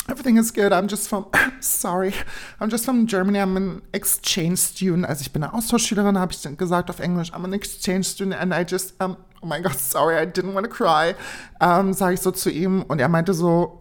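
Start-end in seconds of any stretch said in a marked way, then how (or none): 0.1-11.2 flustered apology. Retold or imitated. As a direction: act out an embarrassed apology after crying. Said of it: "mach so".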